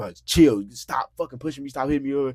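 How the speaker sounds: heated yell, toned down. Retelling yelling at a woman who kept pushing the speaker: retelling a yell. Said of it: "I'm yelling at her like".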